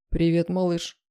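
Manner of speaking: gentle, affectionate hello; tender greeting. A narrator's reading. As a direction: greet a loved one fondly. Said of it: "раздался нежный, любимый голос".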